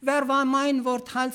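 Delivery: "wer war mein Wort halt" in broad Swabian, hält as halt; Swabian dialect. Shown as a demonstration. Preacher repeats the verse for his flock in Swabian dialect. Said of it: "ich sage jetzt auf Schwäbisch".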